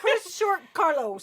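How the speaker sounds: laughing while saying the name. Real, not acted. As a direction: giggle through the words. Laughing over name mixup.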